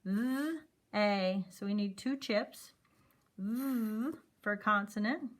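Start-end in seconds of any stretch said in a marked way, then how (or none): 0.0-1.4 "Th-" then long "a" split; sounding out they. Shown as a demonstration. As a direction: stretch the two sounds apart. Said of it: "Let's sound it out".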